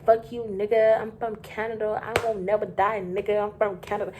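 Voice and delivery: mock-defiant drunk boasting; hammed-up rowdy brag about Canada; drunk guy's boast. The drunk guest taunting the cops, mock defiant. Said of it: "He just kept saying".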